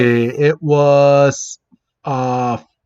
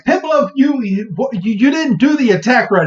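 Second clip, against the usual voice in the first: Cyndaquil voice; 9 semitones higher than usual. Retold or imitated. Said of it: "Cyndaquil was like".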